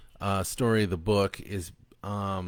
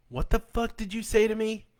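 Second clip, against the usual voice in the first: much higher, strained angry snap; stepdad snapping; 13 semitones higher than usual. A narrator's reading. Stepdad rounding on the boy, high angry snap. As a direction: snap back in disbelief.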